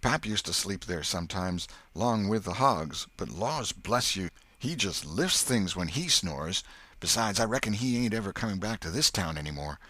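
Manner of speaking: lightly voiced Huck, easing off; lightly voiced boy telling a tale; country boy. Huck explains the snoring.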